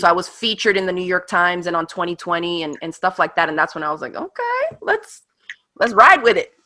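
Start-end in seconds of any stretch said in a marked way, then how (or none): 4.1-6.5 excited decision. Retold or imitated.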